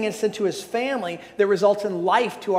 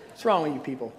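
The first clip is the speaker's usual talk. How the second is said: laughing tease; 7 semitones lower, 5 dB quieter, faster than usual. Real, not acted. Teasing the laughing audience.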